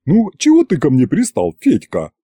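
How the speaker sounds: settled, mildly put-upon complaint; calmer drawl. A narrator's reading. Aunt asking Fedka why he pesters her, calmer. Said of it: "Спокойным уже голосом протянула она".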